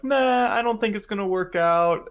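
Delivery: mock-doubtful sister voice; sisters doubting. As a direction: toss it off as the skeptical sisters. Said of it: "they're like".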